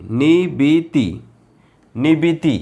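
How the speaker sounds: stretched syllables, very slow; slow syllable demo. Shown as a demonstration. Teacher sounding out zer syllables, very slow. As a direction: read it out slowly. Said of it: "बे ज़ेर बी".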